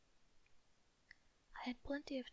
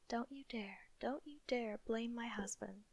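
low deadly warning; 4 dB louder than usual. Acted. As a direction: warn her sister with a touch of menace. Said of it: "in a low and deadly voice".

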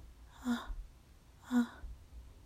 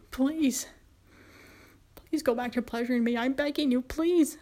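desperate begging. Acted. Begging master to continue.

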